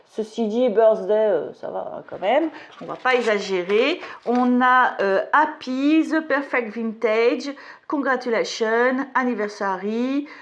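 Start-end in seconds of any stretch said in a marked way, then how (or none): 5.3-10.3 English read with a French accent. Real, not acted. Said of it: "avec mon super accent".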